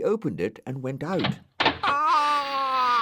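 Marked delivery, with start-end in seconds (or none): 1.6-3.0 high, loud panicked scream. A narrator's reading. Dougal stranded on the roof screams, high and loud. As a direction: shriek in terror. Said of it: "he screamed".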